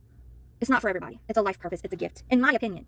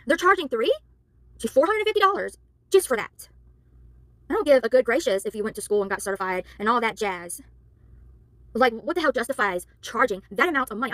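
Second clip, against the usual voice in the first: angry. Real, not acted. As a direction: vent your outrage. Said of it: "I'm sorry if I sound angry".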